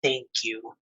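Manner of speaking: low, softened, grudging gratitude; reluctant thanks. Acted. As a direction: force out thanks as if it's hard. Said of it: "trouble saying those words".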